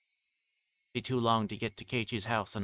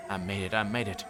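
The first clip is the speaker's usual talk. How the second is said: manic triumph; 3 semitones higher than usual. Acted. Triumphant after stabbing.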